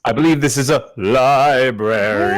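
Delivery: spooky, haunting delivery. Shown as a demonstration. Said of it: "can you say it in a spooky voice?".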